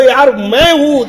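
loud, high, drawn-out call; stretched-out hollering. Retold or imitated. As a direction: shout it slowly into the distance. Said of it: "મને એકવાર થઈ ગયો".

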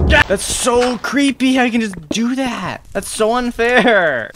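high, loud, slow frightened whine; scared whine. Real, not acted. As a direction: whimper it, spooked. After disturbing sound.

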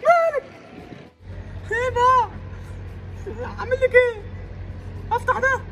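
exasperated coaxing. Acted. Man coaxing his broken-down car.

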